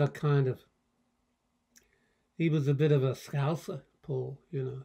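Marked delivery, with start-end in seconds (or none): 2.4-4.8 put-on light Liverpool accent; a hint of Scouse. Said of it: "forgive my impression of Scouse".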